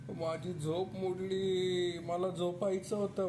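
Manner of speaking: hammed-up gentle tiger sob for a small child; tiger crying. Tiger complaining to the child that his sleep was ruined, mock crying. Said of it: "कसा रडायचा, बच्चू, tiger? ओ, असं".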